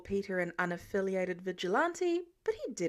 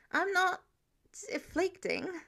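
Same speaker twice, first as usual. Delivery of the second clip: protesting; 8 semitones higher than usual. Acted. Peter protesting.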